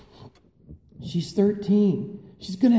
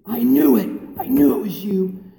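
mock accusing kid; 4 semitones higher, 5 dB louder than usual. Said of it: "I got this one".

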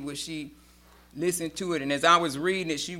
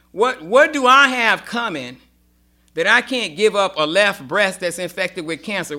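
defiant outburst; 5 dB louder than usual. Real, not acted. Defiant about losing breast.

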